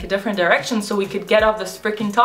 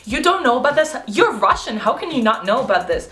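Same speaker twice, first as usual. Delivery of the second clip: condescending disbelief; 4 semitones higher than usual. Retold or imitated. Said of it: "he was just so condescending".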